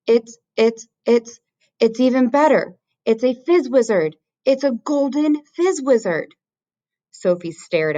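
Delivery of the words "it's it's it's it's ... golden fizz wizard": high, stammering with thrill; bursting with delight at his catch; thrilled giant. A narrator's reading. BFG thrilled by golden dream.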